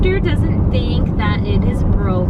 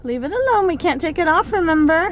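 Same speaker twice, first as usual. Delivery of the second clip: firm scolding; 7 semitones higher, faster than usual. Real, not acted. Mom scolding child about splint.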